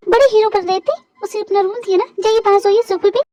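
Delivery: scornful telling-off with loud jabs; angry, sarcastic. Acted. Woman sending her boss off to the sofa, angrily sarcastic. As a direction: taunt him, then dismiss him sharply. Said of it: "miss Jin, please गुस्सा मत होइए".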